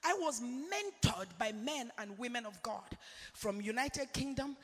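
hushed prayer. Retold or imitated. Retold prayer to God, hushed.

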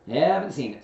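high, loud quick reply; busy Rabbit. A narrator's reading. Rabbit answers about the block, high and brisk. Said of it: "said Rabbit".

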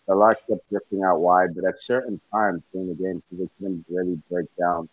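muffled mic sound. Real, not acted. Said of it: "is your sound, like, muffled?".

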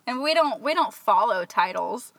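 a light California lilt, rising; hint of California upspeak; lightly put-on California accent; mock California accent. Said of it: "That was a horrible California accent".

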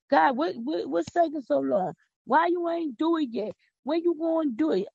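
mock impatient prayer; impatient demand. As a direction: whine at God like a pushy child. Acted impatient complaint to God.

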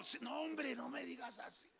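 quiet embarrassed plea to the classmate; embarrassed hush. Retold or imitated. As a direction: shush him, pleading quietly. Embarrassed reply.

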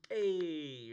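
a soft, casual "Hey," as if tapping a face; demo greeting. Shown as a demonstration. Demonstrating for the judge, a soft casual "Hey,". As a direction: show the friendly tap with a light "Hey,". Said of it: "Maybe if you demonstrated".

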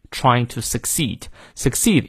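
"succeed" with a long final ee; long vowel. Shown as a demonstration. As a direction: hold the ee in "succeed" fully. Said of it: "succeed也是长音". (把"succeed"的长音念到位)

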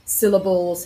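"Syllables" with the weight on "Syll"; stress on first syllable. Shown as a demonstration. Teacher giving a stress example, first syllable stressed in "Syllables". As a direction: hit the opening "Syll" of "Syllables". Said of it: "on syll".

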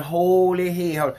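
slow, drawn-out lady's holler; mock holler. Imitating the lady hollering in the store. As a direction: stretch it like a panicked stranger. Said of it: "Lady hollering".

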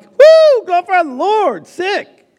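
very high, whooping fake cheer; hammed-up glee, squealed up high; mock celebration. Preacher mimicking joy at a loved one's illness, mock excited whoop.

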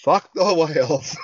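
retold fed-up dismissal. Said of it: "I was like".

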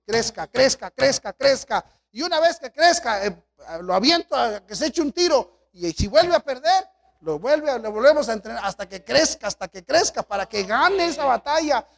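urgent pastoral exhortation; urging growth. Real, not acted. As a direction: push them to grow, building each crezca.

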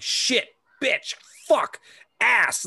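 words fired off high and loud; mock kid swearing. Son rifling off bad words to his dad, high and loud. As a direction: rattle off the swears like an eager kid. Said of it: "He's like".

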